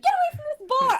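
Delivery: loud high yelled command; retold angry shout; furious order. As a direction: yell to send someone away.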